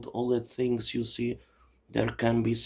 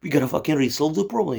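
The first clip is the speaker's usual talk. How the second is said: exasperated Kennedy. Retold or imitated. Kennedy yelling at the CIA director, hammed-up exasperated outburst. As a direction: play a harried president losing patience. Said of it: "Kennedy was like".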